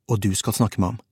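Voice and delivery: ordinary delivery, nothing marked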